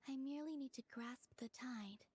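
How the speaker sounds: breathy, hushed murmur throughout; hushed whisper. Acted. Soft whispered voice.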